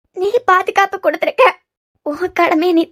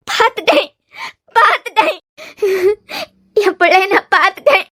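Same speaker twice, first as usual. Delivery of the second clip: tearful joy. Acted. Mother weeping, reunited with son.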